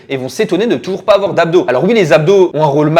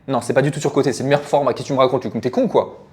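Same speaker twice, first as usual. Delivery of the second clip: contradicteur grognon; 4 semitones lower, 5 dB quieter than usual. Acted. Se contredit en aparté.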